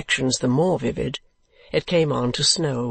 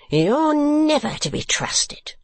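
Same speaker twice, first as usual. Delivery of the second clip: high, slow, stretched shriek; screamed accusation; 12 semitones higher, slower than usual. A narrator's reading. Woman accusing Mantalini, screaming. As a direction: scream it high, dragging the words. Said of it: "screamed the woman".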